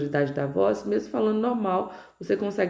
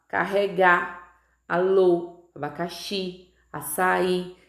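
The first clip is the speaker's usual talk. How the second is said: word list with the final syllable stressed; Carregar, alô, abacaxi, açaí, each leaning on its last syllable; última sílaba tônica; slower than usual. Shown as a demonstration. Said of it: "que são pronunciadas mais forte". (palavras pausadas, com a última sílaba forte)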